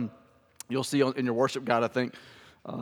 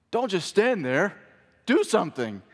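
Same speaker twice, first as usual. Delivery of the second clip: lightly voiced panicking mom, higher; freaking-out mom; 5 semitones higher than usual. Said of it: "the kid's mom is freaking out".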